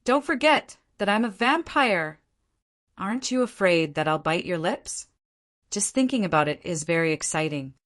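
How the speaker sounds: playful teasing with a smile; charming, teasing. Acted. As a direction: tease him, smiling, a little coy. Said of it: "said with a charming smile".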